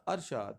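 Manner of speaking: ارشاد as "ar-shaad", falling at the end; pronunciation option. Shown as a demonstration. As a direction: say ارشاد with "ar", closing the list. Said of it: "اس کا کیا بنے گا".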